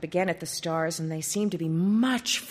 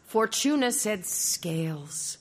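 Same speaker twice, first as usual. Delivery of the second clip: whisper; 2 semitones higher, slower than usual. Acted. Prince confides a secret.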